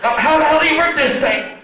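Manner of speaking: loud, high exasperated mother; frustrated mom. Retold or imitated. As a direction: imitate Mom yelling at a gadget. Frustrated mom on voicemail recording.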